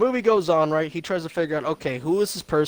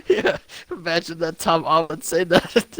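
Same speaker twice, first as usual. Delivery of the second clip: laughing while talking. Real, not acted.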